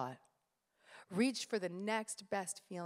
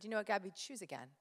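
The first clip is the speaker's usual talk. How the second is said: self-talk; 7 dB quieter, faster than usual. Retold or imitated. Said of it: "So I said".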